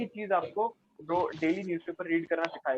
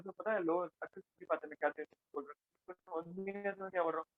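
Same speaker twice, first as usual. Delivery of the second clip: hurried, softer run of words; too-fast speech; 6 dB quieter than usual. Shown as a demonstration. Trainer showing listeners why fast talk gets lost, hurried. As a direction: rush it so the words blur slightly. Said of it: "अगर मैं बहुत तेज से बोलूँ".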